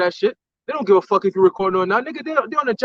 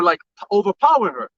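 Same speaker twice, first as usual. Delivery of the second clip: normal talking voice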